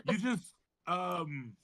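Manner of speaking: a fussy British healer calming a friend; lightly put-on British accent. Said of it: "I don't know how to do my accent today".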